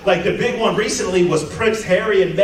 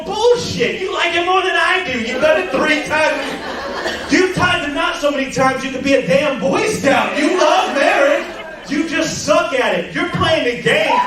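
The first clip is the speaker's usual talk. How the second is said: higher, laughing shout; mock rant; 6 semitones higher than usual. Comedian roasting the divorced heckler, higher laughing rant. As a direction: roast her, pitch way up.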